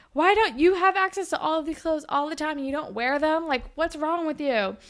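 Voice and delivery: high, incredulous retold question; mock outrage. Allie challenges Claire over Darcy's clothes, mock incredulity. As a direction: imitate a friend berating another.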